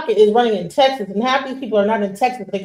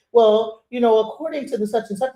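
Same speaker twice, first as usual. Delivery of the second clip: corporate voice. Retold or imitated. Showing how he code switches at the office, lightly proper. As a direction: lightly put on the polite work voice. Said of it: "I'll go into a corporate environment and I will be".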